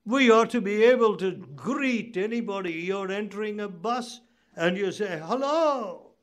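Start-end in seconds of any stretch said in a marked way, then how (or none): 5.2-6.2 drawn-out, higher friendly hello; pleasant greeting. Acted. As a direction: greet a fellow passenger pleasantly. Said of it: "You can be pleasant".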